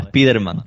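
"Spiderman" con e delante, "espíderman"; pronunciación española. Shown as a demonstration. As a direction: di "Spiderman" a la española, tal como se escribe. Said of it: "cuando nosotros decimos Spiderman". ("Spiderman" como "espíderman")

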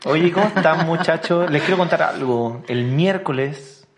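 talking with swollen cheeks; after wisdom teeth. Real, not acted. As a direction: speak through a sore, swollen mouth. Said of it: "me sacaron las muelas del juicio".

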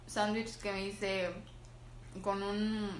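talking while chewing a sandwich; mouth full. Real, not acted. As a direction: speak through a mouthful of food. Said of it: "es que estoy comiendo".

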